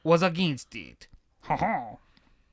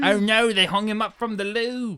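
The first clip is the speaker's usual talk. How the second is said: put-on Cockney accent; 2 semitones higher than usual. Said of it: "Cockney accent".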